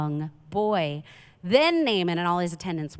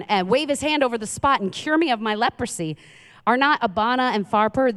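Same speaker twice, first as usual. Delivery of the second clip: mild acted outrage, pitch raised; mock rage; 4 semitones higher than usual. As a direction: protest like an offended commander, without shouting. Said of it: "went off in a rage".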